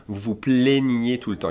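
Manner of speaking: "plaignez" with closed é vowels; accent aigu demonstration. Shown as a demonstration. Teacher giving an example sentence, closed accent aigu sound. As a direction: sound out "plaignez" as play-nyay within the phrase. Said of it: "You hear E accent aigu sound".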